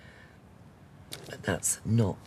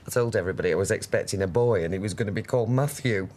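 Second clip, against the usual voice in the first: laughing; much faster than usual. Acted. Fond memory, laughing.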